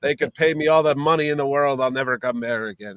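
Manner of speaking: lightly Irish-accented mock rant. Imagined comic artist cursing his employer, in a stray Irish accent. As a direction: put on a slip of an Irish accent. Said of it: "why he's talking like an Irish accent".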